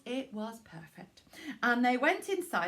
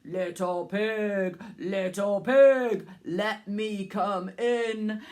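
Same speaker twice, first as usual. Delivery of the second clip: slow, lightly growled wolf voice; a hint of a growly wolf; 2 semitones lower, 4 dB louder, slower than usual. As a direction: drag it out like a wolf at the door. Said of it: "in his growly voice".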